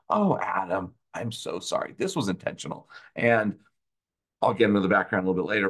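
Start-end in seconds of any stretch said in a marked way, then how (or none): 0.1-1.9 a hint of a meek apologetic auditor; mock apology. Sneering at an apology the auditor never gave, mock sorry. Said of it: "This wasn't like a".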